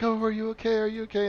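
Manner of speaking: put-on anxious mom checking on her children; worried mom.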